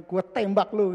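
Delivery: 1 rough threat. Retold or imitated. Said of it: "Kasar banget ngomongnya".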